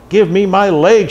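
high, loud, drawn-out cry; screamed demand. A narrator's reading. Woman demands her stolen leg, screaming. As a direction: cry out slowly and forcefully. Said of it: "she screamed".

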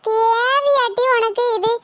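high, drawn-out reproach; exasperated scolding. Acted. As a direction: scold her slowly while tending her. Scolding the burnt woman. (இழுத்துத் திட்டுவது)

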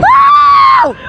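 very high, loud whoop; excited whoop. Real, not acted. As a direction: whoop with delight. Rider whooping on motorbike.

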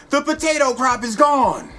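high, loud mock-panicked scream; hammed-up shriek of bad news; screaming in alarm. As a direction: yell it like a frantic messenger bursting in. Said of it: "runs in screaming".

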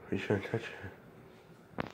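slow breathy whisper. Acted. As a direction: hush it out slowly. Repeats warning in a whisper.

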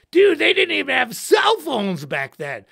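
mild mock scoff; mock future kid. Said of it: "and say".

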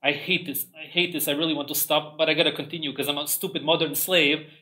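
soft, whining complaint, mocking; mock whiny gym-goer. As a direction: moan it softly like a miserable gym slave. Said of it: "your face expression is gonna be like this".

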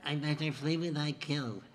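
finger across nose. Shown as a demonstration. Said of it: "finger moving across your nose".

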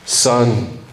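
lightly voiced old grandfather, low and dry; deadpan warning from granddad; grandfather's warning. Grandfather warns his grandson about the truck, low and dry. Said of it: "and he says".

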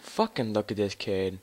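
slow, loud, disgusted snarl; raging gamer. Real, not acted. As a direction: spit it out at the screen. Angry at opponent in game.

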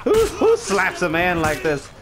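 high, slow holler; mock-outraged shout. Player slapped by a game enemy, mock-outraged shout.

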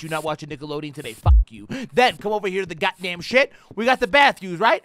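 normal talking voice

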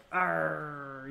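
low, soft zombie growl; playful zombie groan at the dog. Pretend. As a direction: growl softly like a lazy zombie. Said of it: "You wanna be a zombie?".

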